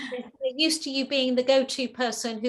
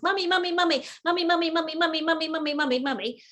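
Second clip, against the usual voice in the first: put-on higher, insistent child calling mummy; whining toddler; 5 semitones higher, 3 dB louder than usual. Toddler pestering mother at the sink, whiny calling. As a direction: nag like a two-year-old. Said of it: "mother's standing at the kitchen sink".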